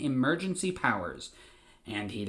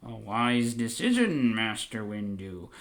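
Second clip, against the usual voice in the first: words squeezed through clenched teeth, slow; grudging, teeth clenched; through gritted teeth; 3 semitones lower than usual. Retold or imitated. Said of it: "through gritted teeth".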